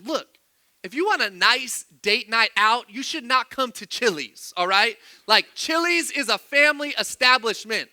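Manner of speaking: indignant mock lecture; imagined scolding, mildly heated; mad retelling. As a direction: act out telling off fellow diners. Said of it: "I'm getting more and more mad".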